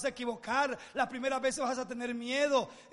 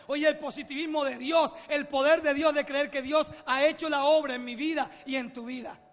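preaching climax; 2 semitones higher, 5 dB louder than usual. Acted.

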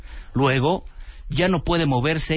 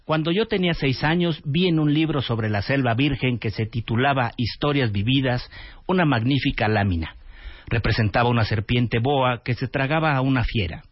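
soap opera drama; 3 semitones lower than usual. Acted. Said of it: "parece que estás leyendo Corazón de Piedra Verde".

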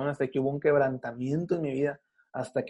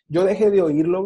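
emotional peak; 4 semitones higher, 7 dB louder than usual. Real, not acted. Climax of conversion story.

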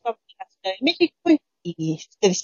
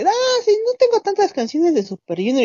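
imitating a friend; 12 semitones higher than usual. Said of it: "ella fue así de".

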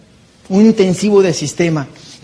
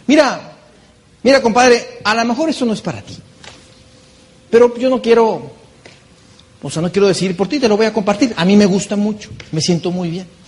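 lightly voiced easygoing advice, a bit higher; friendly pitch to friend; 3 semitones higher than usual. Speaker telling a snobbish friend about the business, friendly and relaxed. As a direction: coax a friend casually, no pressure. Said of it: "tú les dices algo muy sencillo".

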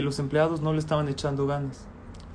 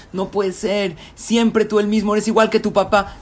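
high, loud scolding shout; mother yelling; 4 semitones higher, 4 dB louder than usual. Acted. Mother yelling at her son over spilled yogurt, loud. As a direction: yell at the child. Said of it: "Le empieza a gritar".

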